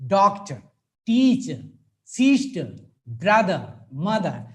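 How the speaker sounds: "doctor", "teacher", "sister", "brother", "mother", each hit on its first syllable; stressed first syllables. Shown as a demonstration. Teacher drilling first-syllable stress for the class. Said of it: "we stress only one particular sound".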